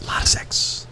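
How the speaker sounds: whisper. Pretend. Repeated line whispered.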